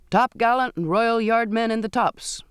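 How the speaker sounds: crying an order up to the mast tops; captain cries out orders to the yardmen. A narrator's reading. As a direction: carry the command to the men up high. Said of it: "he cried".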